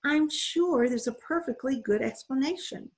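sweet, smiling voice. Acted. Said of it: "smiled sweetly".

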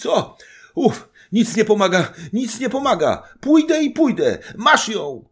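loud, high exasperated bursts; panting, broken voice. A narrator's reading. Zagłoba explains why he brought the wife, panting and exasperated. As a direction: puff out complaints in short, breathless shouts. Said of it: "mówił przerywanym głosem, sapiąc pan Zagłoba".

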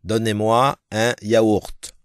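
Donnez-moi un yaourt slow with a faint final t; teacher modelling a French order; slow French model. Shown as a demonstration. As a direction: order yogurt in careful French. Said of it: "đọc cho chính xác".

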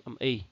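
"y" said as the vowel in slim; short ee sound. Shown as a demonstration. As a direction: pronounce "y" as a short pure ee. (đọc "y" thành âm i như trong slim)

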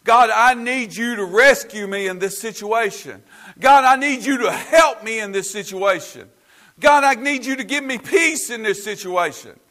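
rising, urgent "God, I need you"; pleading prayer. Acted. Preacher voicing the church's prayer, rising urgent plea. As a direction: plead with God, building each line. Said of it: "We're saying".

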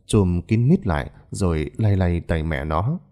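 usual speaking voice

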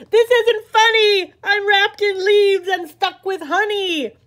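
the wizard fumes at being stuck; hammed-up villain outrage; mock indignant. Wizard wakes trapped in web.

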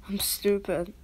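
whispered self-scolding; a quick whispered put-down of yourself. Real, not acted. Muttering self-criticism.

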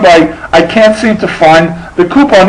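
"can't seem" said with a clean s; careful normal speech. Retold or imitated. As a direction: keep the lisp out of "seem to find". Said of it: "I'm talking normal".

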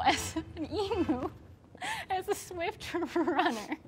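can barely finish the sentence; laughing. Real, not acted. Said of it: "I'm gonna try to get through this story".

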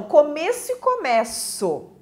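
COMEÇO twice, closed E then open E. Shown as a demonstration. Teacher introducing noun and verb, contrasting closed and open começo. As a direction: contrast the stressed vowel in começo. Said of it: "a pronúncia mais fechada".

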